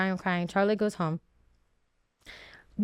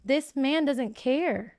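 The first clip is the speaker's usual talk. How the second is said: slow despair; 3 semitones higher, much slower than usual. Retold or imitated. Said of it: "it made me hysterical 'cause I was like".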